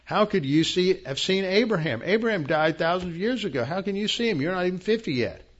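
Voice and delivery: preacher voicing scoffing Pharisees in disbelief; indignant Pharisees. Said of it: "They're saying".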